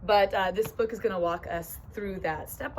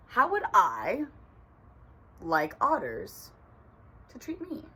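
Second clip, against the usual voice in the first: pondering rabbit. Acted. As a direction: weigh each phrase as a lightly voiced rabbit. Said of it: "Rabbit is considering this whole rule thing".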